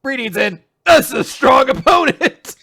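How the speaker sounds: gloating henchman mocking the fallen; mock Nappa. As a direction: ham up the brute reading a power level. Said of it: "Nappa's like".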